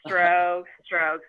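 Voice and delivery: very slow, each stroke stretched out; drawn-out recital. Retold or imitated. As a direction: recite it like a Tai Chi count, imitating. Dad spelling curse as character strokes.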